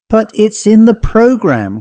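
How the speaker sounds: put-on a girl protesting shrilly at the table; crying out. A narrator's reading. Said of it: "cried Mabel Warren".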